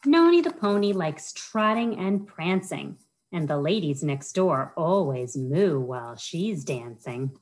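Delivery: lilting rhyme-reading voice, bouncing on each rhyme; reading to children. Acted. Children's librarian reads a rhyming book to kids, sing-song storytime voice. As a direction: read it like storytime for little kids.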